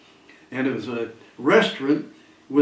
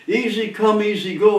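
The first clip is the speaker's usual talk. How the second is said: higher-pitched imitated holler; retold yelling; 6 semitones higher, 3 dB louder than usual. Beaten gambler turning to the gambling joint, yelling. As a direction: call it out to the whole room.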